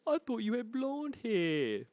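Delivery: high breathy whispered quote. Acted. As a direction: whisper it like a secret aside. Voicing a quoted remark.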